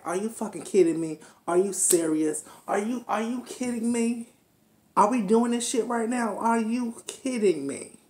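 rising, incredulous rant at each scene; exasperated disbelief. Retold or imitated. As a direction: act out the viewer who can't believe it. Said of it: "every scene was kinda like".

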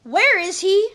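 loud, high booming demand; demanding giant. Acted. Husband giant searches the kitchen for Jack, loud demand. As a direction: bellow it as the angry giant. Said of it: "demanded the giant's husband".

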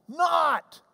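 Not shouted high and sharp; stress on Not. Shown as a demonstration. Preacher explains the Greek, shouting Not. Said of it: "uh, means not".

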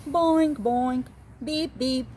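high, chirpy game noises; bouncy game beeps. Acted. The game bleeping as Kitty plays, high and chirpy. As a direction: chirp them like a game console. Game sound effects in story.

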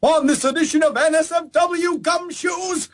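hammy noir detective announcer; gumshoe voice. Acted. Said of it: "do it in the gumshoe voice".

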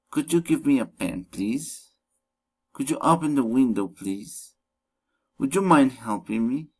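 polite request, "please" lifted at the end; rising request intonation. Shown as a demonstration. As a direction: let "Would you mind helping me" rise like a request. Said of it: "rising intonation".

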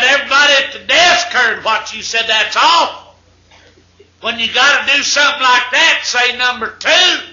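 scolding nurse. Acted. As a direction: tell him off like a prim nurse. Nurse scolds over intercom.

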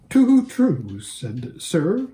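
high, sad whinnying reply; melancholy whinny. Acted. Hwin answering Bree, melancholy whinny. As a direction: sigh it like a sad horse. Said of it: "said the mayor with a melancholy whinny".

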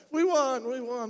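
high, excited mock cheer of the winning team. Team celebrating the win, excited mock cheer. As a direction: cheer it like the team just won.

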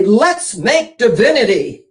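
slow, fuller voice of mother; a mother rallying everyone, slowly; mother's voice. Retold or imitated. Mother suggesting candy making in hard times, slow and full.

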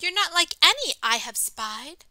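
high, loud storybook exclamation; crying out. Acted. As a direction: cry it out as the astonished robin. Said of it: "the robin cried".

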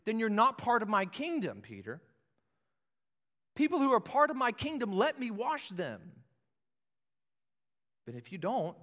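high, loud, firm explaining; earnest Jesus. Retold or imitated. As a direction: lay down the condition plainly. Voicing Jesus answering Peter.

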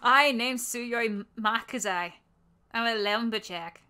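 put-on shaky try at an Irish accent; badly faked Irish lilt; attempted Irish accent. Lumberjack introduces himself, attempted Irish accent. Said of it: "an Irish accent".

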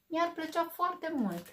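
slow, high, smiling reply. Acted. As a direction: let the grumpy bear soften. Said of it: "apoi zâmbi".

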